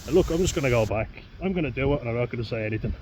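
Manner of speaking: excited promise. Real, not acted. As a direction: rush out a loud promise. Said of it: "I swear".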